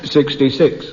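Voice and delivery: bingo caller. Pretend. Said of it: "it goes like this".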